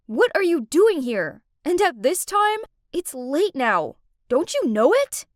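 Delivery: angry scolding. Acted. Kurt scolding Haley for being out late, mildly angry. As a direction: tell her off like a big brother. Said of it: "He yelled at me".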